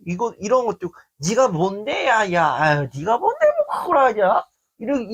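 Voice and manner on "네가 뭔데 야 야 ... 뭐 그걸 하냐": teasing dismissal. Retold or imitated. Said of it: "이게 어조가 다르지만".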